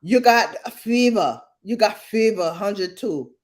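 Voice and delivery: put-on high, loud "girl", easing down; mock alarm as a fussing aunt; aunt's alarm, imitated. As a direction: voice a worked-up aunt. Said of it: "She like".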